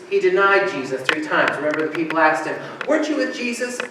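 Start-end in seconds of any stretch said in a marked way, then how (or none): 2.9-3.8 high-pitched curious questioner; high, probing question; acted questioning. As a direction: ask it lightly, pitched well up. Voices Peter's questioner, acted denial scene.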